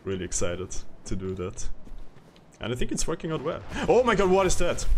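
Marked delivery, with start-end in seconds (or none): 3.9-4.8 surprised. Real, not acted. Monster appears in game.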